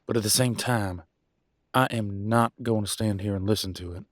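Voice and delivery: loud, forceful rebuke; angry warning. Acted. Warning mate off using that term, angry and loud. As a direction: lay down the law, loud and firm. Acted quarrel, man warns listener off.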